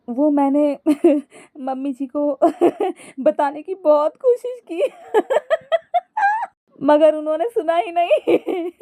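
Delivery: high explanation broken by cackles; laughing. A narrator's reading. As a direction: keep explaining between bursts of laughter. Wife explains while laughing. (हंसते-हंसते)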